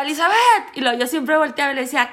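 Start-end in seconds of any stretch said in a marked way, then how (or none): 0.0-0.4 shorter, milder mock yell of a name; imitated shout. Boyfriend calling Elizabeth, milder imitated shout. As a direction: call the name out, half-hearted. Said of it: "Y le gritaba".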